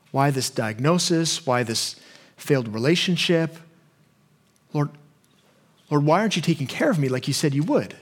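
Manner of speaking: a mild hurt plea to God; personal questions. Retold or imitated. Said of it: "We have personal questions for God".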